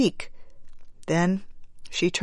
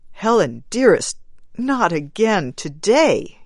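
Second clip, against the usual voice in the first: begging; 3 semitones higher than usual. Acted. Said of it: "he begged".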